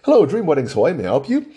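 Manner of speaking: demonstrating proper English on the phone; proper phone greeting. Shown as a demonstration. Wedding business host answering a customer's call, properly and politely. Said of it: "there's a proper way to speak".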